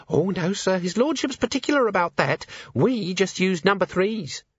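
put-on high, timid servant girl; nervous young maid. A narrator's reading. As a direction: stammer it out, frightened. Maid voiced.

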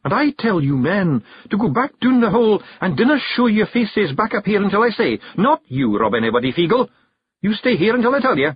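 high, hard Scots matriarch giving orders; cold, sharp command. A narrator's reading. The Kelder orders the men and Rob, cold command. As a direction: lay down the law sharply. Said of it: "hard, cold, sharp".

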